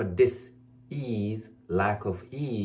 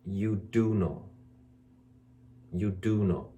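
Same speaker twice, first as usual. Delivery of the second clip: gentle insistence; 4 semitones lower, slower than usual. Retold or imitated. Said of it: "I say to most of my".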